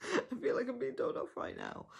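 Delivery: playful laughing complaint; laughing mock dismay. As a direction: giggle as if being told off. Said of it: "and I was like".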